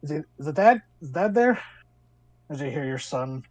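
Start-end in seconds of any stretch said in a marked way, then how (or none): 0.0-1.6 son's eager voice. Acted. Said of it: "you hear a voice go".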